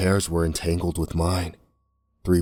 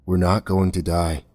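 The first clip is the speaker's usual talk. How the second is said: soft. Acted. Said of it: "Kaz said softly".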